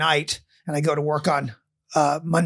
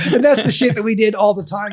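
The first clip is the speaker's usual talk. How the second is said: laughing; 3 semitones higher than usual. Real, not acted.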